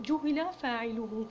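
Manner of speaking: جهل slowed and stressed, juhila; slow teacher stress on جهل. Shown as a demonstration. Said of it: "لأنه قد جهل فاعله".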